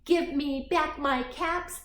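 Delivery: slow, high play-acted scolding; peddler's scolding. Shown as a demonstration. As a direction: show a child how to scold crossly, drawn out. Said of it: "You be the peddler".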